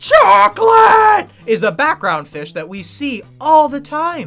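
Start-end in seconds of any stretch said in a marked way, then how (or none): 0.0-1.3 long, high-pitched, loud scream. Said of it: "the guy who screams".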